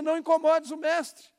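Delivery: loud, high mocking taunt of the enemy. Preacher voicing the enemy of our dreams, loud mocking taunt. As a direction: sneer it like a voice whispering doubt. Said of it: "alguém tá dizendo pra você".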